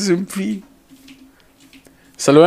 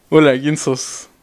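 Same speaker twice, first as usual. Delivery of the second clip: slow, lower hello; low rehearsed greeting; 4 semitones lower, slower than usual. Pretend. Streamer rehearses meeting Farfa, slow and low. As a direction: take the practice greeting down low.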